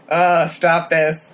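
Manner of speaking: slow protest dissolving into laughter; laughing. Real, not acted. Viewer cracking up at the blood-brothers scene, laughing. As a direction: beg it to stop, cracking up.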